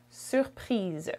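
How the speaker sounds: "surprise" softly, ending in a voiced z; final z sound. Shown as a demonstration. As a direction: let "surprise" finish on a z. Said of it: "Z sound at the end".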